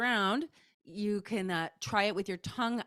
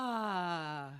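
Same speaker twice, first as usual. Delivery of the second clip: forward call; 3 semitones lower, 4 dB quieter than usual. Shown as a demonstration. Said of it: "Send it out".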